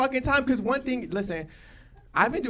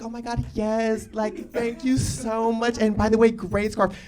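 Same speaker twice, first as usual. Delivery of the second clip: sugary register small talk. Retold or imitated. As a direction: gush politely to the cashier. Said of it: "me and the bitch at the register are like".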